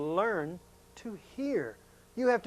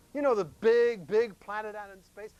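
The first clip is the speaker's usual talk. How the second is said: excited; 5 semitones higher, 6 dB louder than usual. Shown as a demonstration. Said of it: "I said it so quietly you couldn't hear me".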